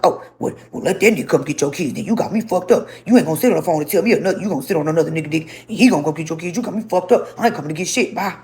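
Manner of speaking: rapid-fire mock indignation; imitated angry rant. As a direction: mimic him ranting, then hanging up. Acted angry phone quarrel.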